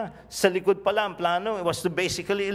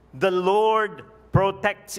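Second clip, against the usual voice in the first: slow, louder proclamation of faith; bold declaration; 3 semitones higher, 6 dB louder, much slower than usual. Shown as a demonstration. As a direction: proclaim it like a banner over the crowd. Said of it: "It's a kind of declaration".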